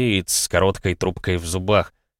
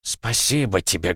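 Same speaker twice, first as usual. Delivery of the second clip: сквозь слёзы. Acted. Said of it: "не вытирая стекающих ... слёз".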